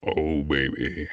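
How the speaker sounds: slow, deep drawn-out voice; low voice. Shown as a demonstration. Voice actor showing the host how low he goes, deep voice. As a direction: sink slowly into your low register. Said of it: "I can get quite low".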